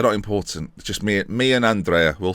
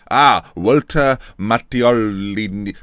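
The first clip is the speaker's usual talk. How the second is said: put-on slow, drawn-out Italian accent; 3 semitones lower, much slower than usual. Gamer reading out the chairman's name, Italian accent. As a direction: relish each syllable in an Italian accent. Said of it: "I'm a lot more Italian".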